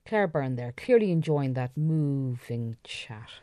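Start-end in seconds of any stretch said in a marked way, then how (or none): 1.8-2.8 "moving" with a drawn-out moo; cow-pun moo. Pretend. Presenter puns on cows, drawn-out moo in "moving". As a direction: stretch the first syllable of "moving".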